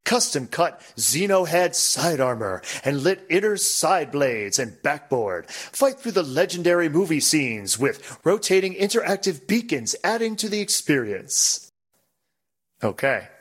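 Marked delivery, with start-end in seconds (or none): 0.0-11.7 hard sell ad read; marketing voice. Pretend. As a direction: read it like a pinball ad. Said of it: "Let me do a marketing voice".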